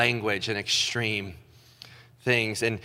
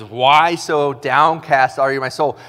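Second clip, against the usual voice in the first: louder, slow self-exhortation; preaching to himself; 6 dB louder than usual. Acted. Psalmist preaching to his soul, slow and louder. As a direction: rouse your own soul. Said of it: "he's preaching to himself".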